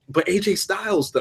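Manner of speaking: laughing through the words "But A J Styles". Real, not acted. Telling cohost he chose the match, laughing.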